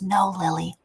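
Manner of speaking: put-on whispered child's explanation; hushed secret between kids. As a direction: whisper it confidentially to your sister. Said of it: "She whispers it to her".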